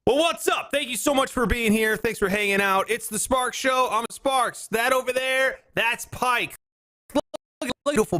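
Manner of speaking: high, upbeat host opening; show host intro. Acted. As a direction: welcome the audience like a host.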